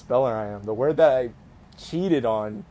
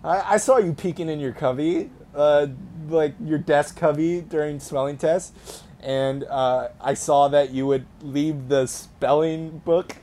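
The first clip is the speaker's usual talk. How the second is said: mock accusing; 3 semitones higher, 3 dB louder than usual. Real, not acted. Calls out cheating classmate Kyle.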